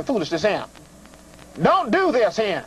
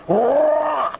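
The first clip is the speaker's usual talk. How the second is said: the word roar spoken as a mock growl; lightly hammed monster roar; 4 semitones higher, 3 dB louder than usual. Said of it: "Then, roar".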